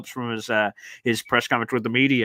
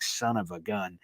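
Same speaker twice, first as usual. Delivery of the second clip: muttered curse; 5 semitones lower, 9 dB quieter, slower than usual. Retold or imitated. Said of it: "and I'm like".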